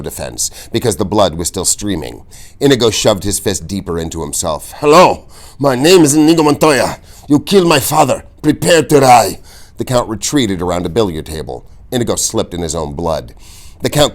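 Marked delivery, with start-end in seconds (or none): 4.8-9.4 high, loud challenge; mounting vow. A narrator's reading. Inigo advancing on the Count, loud and fierce. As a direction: hammer each word home.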